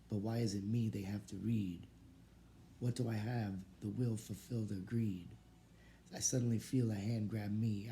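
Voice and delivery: steady, emphatic verse reading; poem recitation. Real, not acted. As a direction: push through the rhymed lines with a firm, even beat. Reads student's poem aloud.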